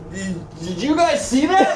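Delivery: a lightly hammed-up startled king. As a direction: play the stunned king, laughing. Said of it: "He was like".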